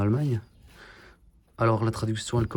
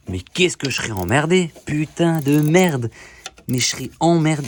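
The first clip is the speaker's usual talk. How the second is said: exasperated; 6 semitones higher, 8 dB louder than usual. Real, not acted. Cursing at the car repair.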